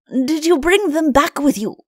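high, lilting eager question; excited Chancellor. A narrator's reading. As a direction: ask it eagerly, pitched well up. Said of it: "asked the Chancellor excitedly".

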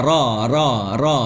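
"รอ" with lips not rounded; drilled "รอ", lips relaxed; unrounded lips. Shown as a demonstration. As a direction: say each "รอ" separately without pursing the lips. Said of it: "อย่าหอปากนะ".

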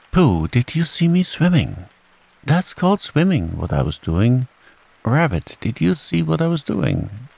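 high, excited little chatter; Roo's excited squeak. A narrator's reading. Roo boasting of swimming to everyone, excitedly squeaking. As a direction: pipe up high to one listener after another. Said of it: "squeaked Roo excitedly".

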